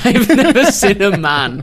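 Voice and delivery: loud, drawn-out mock French accent; bad French accent. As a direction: boom it out in a terrible French accent. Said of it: "imagine it in a French accent".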